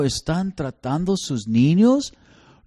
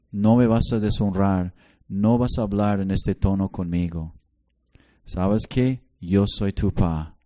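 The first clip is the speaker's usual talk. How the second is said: a hint of a stern father, lower and calmer; firm talk to a disrespectful daughter; 4 semitones lower than usual. Father correcting his daughters, lower and firm. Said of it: "yo les decía".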